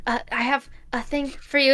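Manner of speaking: hushed psst, then soft murmur; furtive undertone. Acted. Guest passing Leon something under the table, furtive undertone. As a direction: slip it in discreetly, softly. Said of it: "very inconspicuous under the table".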